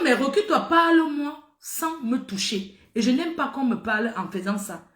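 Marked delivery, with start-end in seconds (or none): 0.0-2.8 annoyed warning. Retold or imitated. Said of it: "je dis que".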